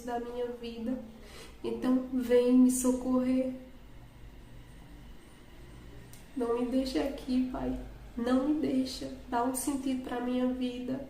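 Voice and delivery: retold tearful plea. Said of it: "E eu ficava".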